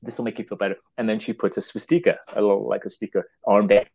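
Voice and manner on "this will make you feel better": soft consoling murmur; nurse consoling. Retold or imitated. Nurse to the professor over the body, soothing. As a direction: say it softly as the nurse.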